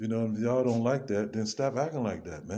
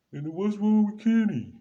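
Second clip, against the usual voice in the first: 1 incredulous outburst; 10 semitones higher, 5 dB louder than usual. Real, not acted. Sudden outburst about Kenny.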